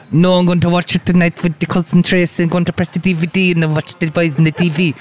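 high, put-on voice of his Irish mum; imitating his mum. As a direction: pitch up into mum's chatty voice. Son voices mum on the phone.

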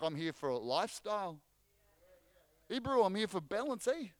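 New Zealand accent, lightly put on; a hint of a Kiwi accent. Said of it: "That's my Kiwi accent".

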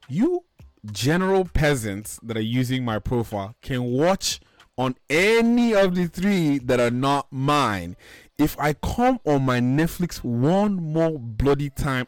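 emphatic, drawn-out warning; mock-stern scolding. Real, not acted. Account owner warning freeloaders, indignant scolding. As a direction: lay down the law, stretching the key words.

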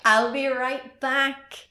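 slow, drawn-out, foreboding; ominous slow delivery. Retold or imitated. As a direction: drag it out like a doomed horror victim. Repeating the line ominously.

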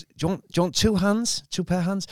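imitated Thai accent. Storyteller quoting the Thai masseuse's offer, lightly imitated Thai accent. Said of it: "He's in the accent there".

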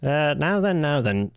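drawn-out Yorkshire greeting; mock Yorkshire now then. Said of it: "an offensive impersonation".

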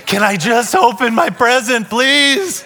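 lightly voiced impatient little kid; impatient kid pleading. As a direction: plead like a kid who can't wait any longer. Impatient child pleading in a story.

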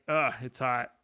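a light groan of annoyance at the heat; "Ugh, it's hot" tossed off, only lightly fed up; mock complaint about the weather, barely bothered; mild disgust. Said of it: "varying levels of just disgust".

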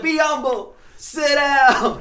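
retold put-down. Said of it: "I was like".

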